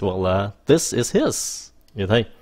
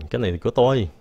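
whisper; 2 semitones higher, much faster than usual. Shown as a demonstration. Demo translation, whispered.

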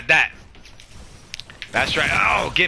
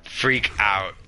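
tearful; 6 semitones lower, 3 dB quieter than usual. Real, not acted. Emotional about sleeping family.

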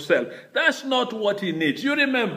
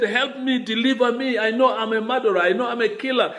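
urgent plea, pitched higher; pleading; 5 semitones higher, faster than usual. Retold or imitated. David crying to God to be freed from guilt, pleading. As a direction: beg for deliverance in a high, pressing voice. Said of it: "Plead with God the way David is pleading".

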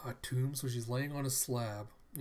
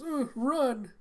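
high, loud acted yell; shrieked command, acted; urgent shout; 13 semitones higher, 7 dB louder than usual. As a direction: call out to send them fleeing. Calling out to make horses bolt.

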